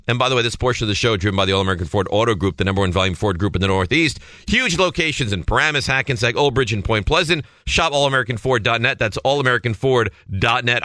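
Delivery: brisk sponsor read, quick at the start. Acted. Radio host reads the car dealer sponsor plug mid-story, brisk ad voice.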